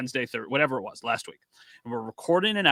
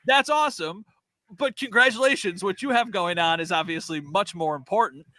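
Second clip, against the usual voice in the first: upbeat reply; 6 semitones higher than usual. Retold or imitated. His reply to the fan.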